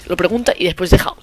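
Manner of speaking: ordinary delivery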